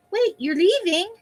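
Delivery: high and slow, pleading; high drawn-out voice. Pretend. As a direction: stretch it out, voice up high. Rereading the clipping in a voice.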